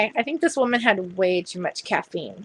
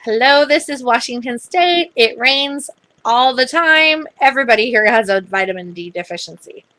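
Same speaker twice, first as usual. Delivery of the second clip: joking retort; 2 semitones higher, 5 dB louder than usual. Retold or imitated. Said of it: "a joke about".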